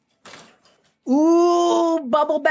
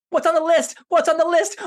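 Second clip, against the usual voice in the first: eager; 5 semitones higher, faster than usual. Acted. Monkey begging to hear list.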